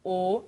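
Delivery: O with lips in a smaller round; O com bico menor; closed O, small pout. Shown as a demonstration. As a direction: tighten the lip round for O. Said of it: "O, bico menor".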